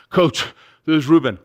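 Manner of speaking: acted breathlessness into a walkie-talkie; winded after a run; out of breath. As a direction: heave a breath, then report in. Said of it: "I'm still out of breath".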